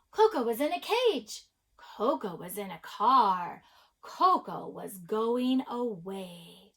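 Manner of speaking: put-on lively read-aloud to children with stressed key words; story read-aloud. A narrator's reading. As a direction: read the picture book with rhythm and swing. Reads a picture book aloud.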